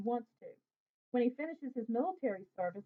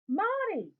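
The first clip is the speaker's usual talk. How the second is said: high, loud call across a crowd; called out loudly from a distance; 9 semitones higher, 6 dB louder than usual. A narrator's reading. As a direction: shout his name to get his attention. Friend calls out across crowd.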